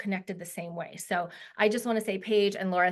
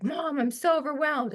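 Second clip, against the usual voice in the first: imitating daughter; 5 semitones higher than usual. Mother imitates daughter's text.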